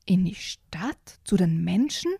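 slow, breathy disbelieving whisper; can't believe what he hears; hushed, stunned question; incredulous. Acted. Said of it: "fragte der Bär ungläubig".

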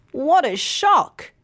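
high, slow gasp of shock. Acted. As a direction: act out the dismay at the bill. Jenny learns real price.

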